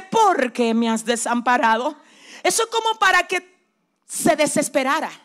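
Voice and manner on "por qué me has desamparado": a touch of Christ's anguish. Retold or imitated. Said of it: "Jesús exclama y dice".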